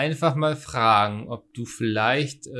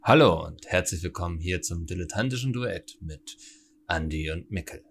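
breathy late-night show intro; sultry announcer voice; 5 semitones lower than usual. Acted. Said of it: "es ist keine Sexfernsehsendung".

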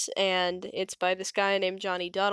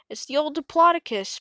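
high, louder smug announcement; Bonehead declaring; 8 semitones higher, 4 dB louder than usual. A narrator's reading. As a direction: tell them off for panicking. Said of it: "Bonehead declared".

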